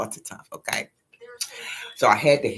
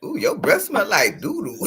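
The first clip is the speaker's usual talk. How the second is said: high, loud teasing squeal; high mock-disgusted squeal; mama's teasing; 10 semitones higher, 4 dB louder than usual. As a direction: tease her like mama did. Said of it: "Mama said".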